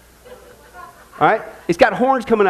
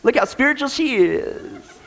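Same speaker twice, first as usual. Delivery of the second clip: slow, laughing mock praise; sarcastic; 3 semitones higher, slower than usual. Real, not acted. Host mocking the kicking lady, laughing sarcasm. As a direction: drawl it out with a chuckle.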